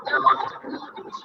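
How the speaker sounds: rough attempt at an Irish accent; retry the catchphrase in mock Irish. Shown as a demonstration. Trying the line for her listener, amateur Irish accent.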